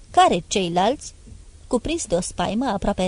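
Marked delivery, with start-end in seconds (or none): 0.1-1.1 slow, halting, a touch of fear; mild frightened stammer. A narrator's reading. Son stammering in near-religious fear, slow. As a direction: stumble over it, lightly scared. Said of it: "A bolborosit".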